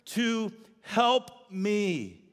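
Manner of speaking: exasperated complaint to Jesus; Martha complaining. Retold or imitated. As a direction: whine it like an overworked sister. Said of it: "that's how she said it".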